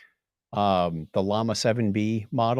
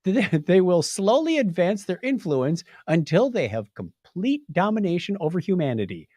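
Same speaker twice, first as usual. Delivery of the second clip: mock sinister toy; 5 semitones higher than usual. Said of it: "Furby responded".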